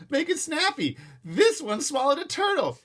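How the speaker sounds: high, loud call. A narrator's reading. Attendant calling to the driver. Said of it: "attendant called to the driver".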